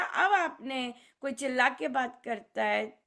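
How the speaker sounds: normal talking voice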